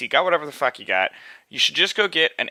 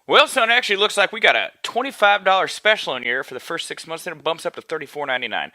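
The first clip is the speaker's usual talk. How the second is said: put-on good old Southern boy; 2 semitones higher than usual. Salesman offering a cheaper special, light Southern accent. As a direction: pitch it with a mild Southern accent. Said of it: "this good old Southern boy".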